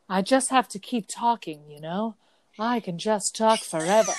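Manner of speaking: put-on hyper-enunciated half-British, half-American accent; character's bizarre accent. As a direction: mimic her mid-Atlantic-style English accent. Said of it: "in the accent".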